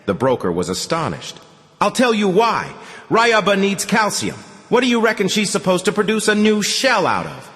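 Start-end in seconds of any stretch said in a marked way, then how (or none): 1.8-7.5 high, loud lecturing tone; indignant egg seller. Acted. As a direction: explain it as if it's obvious. Oleg explaining voiced.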